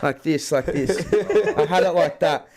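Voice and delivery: chuckling through the words; amused retelling through laughter; laughing while telling. Real, not acted. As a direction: laugh as you tell it.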